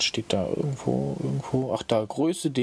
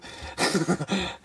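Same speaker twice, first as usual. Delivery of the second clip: crazy laugh; 7 semitones higher than usual. Retold or imitated. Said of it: "So richtig irre lachen".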